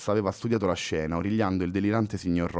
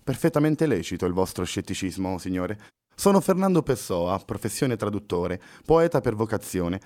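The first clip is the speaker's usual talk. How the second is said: impassive. Acted. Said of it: "continuò impassibile Pessoa".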